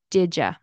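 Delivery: "did ya." with "you" reduced to a quick "ya". Shown as a demonstration. Teacher showing students the casual "did ya.". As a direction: say "did ya." loosely, no clear "you". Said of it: "It also can turn into".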